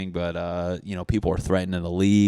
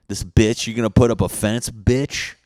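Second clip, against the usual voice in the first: loud, higher indignant yell; outraged neighbor calling out the fence; angry neighbor; 4 semitones higher, 8 dB louder than usual. Retold or imitated. Neighbor yells at the fence builder, mock outrage.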